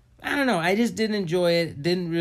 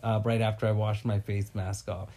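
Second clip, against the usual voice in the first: lower, drifting stoned voice; stoner; 5 semitones lower than usual. Real, not acted. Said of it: "I'm pretty high right now".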